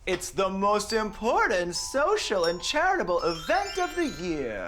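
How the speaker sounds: grand, hammed-up pronouncement; mock enthusiasm. Neighbour talking up the fundraiser to its host, mock-enthusiastic. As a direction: play up the event's importance, sweepingly. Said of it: "With that enthusiasm".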